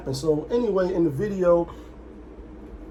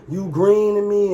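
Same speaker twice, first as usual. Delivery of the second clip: Southern drawl; 3 semitones higher, 3 dB louder than usual. Retold or imitated. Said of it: "they got that accent, that twang, that drawl".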